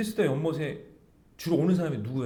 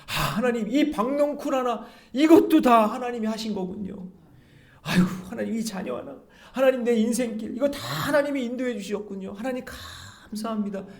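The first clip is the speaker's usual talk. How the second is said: higher, marvelling thankful prayer; grateful prayer; 9 semitones higher, 4 dB louder than usual. Acted. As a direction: pray it in wonder and thanks. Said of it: "이런 마음으로 사는 자에게". (높은 목소리로 감탄하며 감사 기도)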